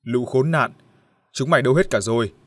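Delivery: put-on a mild drunken holler; drunken yelling. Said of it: "la hét". (giọng say xỉn la hét nhẹ)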